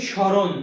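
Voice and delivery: স্মরণ said as "shoron", silent ম; correct pronunciation. Shown as a demonstration. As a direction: repeat স্মরণ with no m sound. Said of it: "কি উচ্চারণ করি?".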